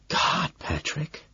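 breathy slow hushed whisper. A narrator's reading. Lewis whispering to Patrick in the stall, hushed. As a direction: whisper his name, slow and soft. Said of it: "he whispers".

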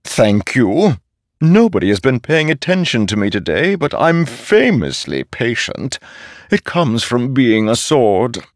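high, bright-edged chatty blade; a sword that loves to be heard; ringing metallic sword voice. A narrator's reading. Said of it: "said the sword strapped to Szeth's back".

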